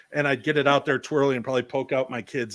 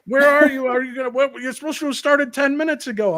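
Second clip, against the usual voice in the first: high, loud, mock-scolding caricature; Karen; 11 semitones higher, 5 dB louder than usual. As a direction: nag a latecomer in a silly cartoon accent. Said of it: "I don't know why I use that accent".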